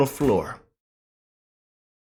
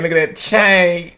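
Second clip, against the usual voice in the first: slow, awed "chain" stretched out; awed drawn-out; 3 semitones higher than usual. Acted. Host slowly admiring the spokesperson's chain, in awe. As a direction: savour the word "chain" slowly.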